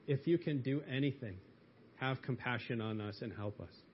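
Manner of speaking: soft pleading father, trailing off quietly; begging. Acted. Father begging Jesus, soft and pleading. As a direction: plead with Jesus gently, losing strength. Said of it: "he begged Jesus".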